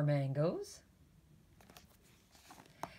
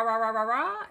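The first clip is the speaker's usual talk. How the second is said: imitated snore; 5 semitones higher, 5 dB louder, faster than usual. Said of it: "it sounds like a rah".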